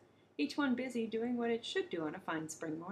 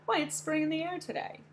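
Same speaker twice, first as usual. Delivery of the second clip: kookaburra; 7 semitones higher, 4 dB louder than usual. Acted. Kookaburra insists cheerfully.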